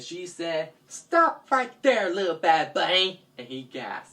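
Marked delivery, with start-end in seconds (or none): 0.9-3.2 stern heroine. Acted. Dreamer confronts the bunny.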